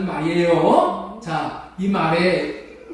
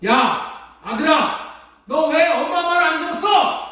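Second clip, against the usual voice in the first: a mother's scolding, raised and rising; mock scolding; 7 semitones higher than usual. Mother scolding her late son with a switch in hand. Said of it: "이렇게 야단을 친 거예요".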